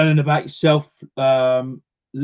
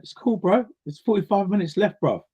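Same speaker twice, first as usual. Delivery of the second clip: teammate's reply; 6 semitones higher than usual. Retold or imitated. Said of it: "He went".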